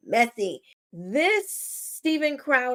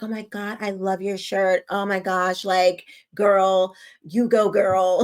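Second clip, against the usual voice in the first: mock gushing praise, getting louder on "girl, you go, girl"; mock gushing white people; 5 dB louder than usual. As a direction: parody fawning strangers over a shirt. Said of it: "all the white people, they're like".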